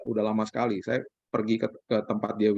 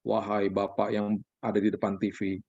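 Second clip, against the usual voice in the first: a hint of stiff, solemn address; lightly hammed-up formal plea to a father; solemn, lowered mock petition; mock formal prayer; 3 semitones lower than usual. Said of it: "saya kan nggak mungkin ngomongnya begini".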